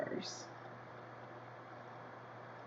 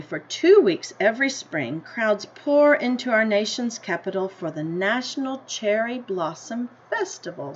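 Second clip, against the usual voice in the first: story reading; 3 dB louder than usual. A narrator's reading. Teacher reading the class a picture book, in an unhurried storybook voice. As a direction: read it like a picture book to kids.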